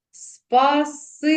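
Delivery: "Спасибі" high and slow, holding the "и" long; syllable-by-syllable "Спасибі" with a sustained "си"; drawn-out vowels. Shown as a demonstration. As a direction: stretch the middle vowel of "Спасибі". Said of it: "протягуючи голосні звуки".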